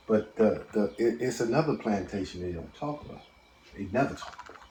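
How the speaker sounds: distant, faint off-mic voice; talking too far from the mic; phone held away. Real, not acted. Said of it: "Speak closer to the phone".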